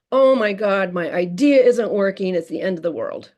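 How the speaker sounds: imitating a child wailing over nothing, loud at first; mock dramatic child. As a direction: ham up a kid's little tragedy. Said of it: "they get very dramatic".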